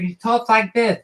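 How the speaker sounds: soft lisping boxer voice; Mike Tyson. Retold or imitated. Cartoonist mimicking a boxer for viewers, soft lisp. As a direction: talk softly with a lisp on the s. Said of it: "He doesn't talk the way he looks".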